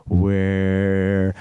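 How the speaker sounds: high, slow, loud call into the void; loud, high, drawn-out hailing call. Pretend. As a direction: shout out to the distant audience. Calling out to SoundCloud.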